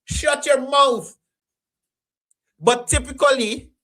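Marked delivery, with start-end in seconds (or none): 0.0-1.2 firm shush. Shown as a demonstration. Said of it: "Especially if I'm trying to do an interview".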